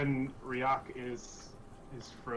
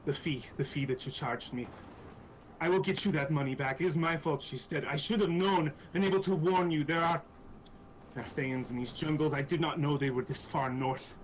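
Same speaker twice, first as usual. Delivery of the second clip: agitated apology, settling toward the end; acted remorse with halting restarts; flustered guilt. Iku promises the money back, flustered with guilt. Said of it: "she seems absolutely just flustered".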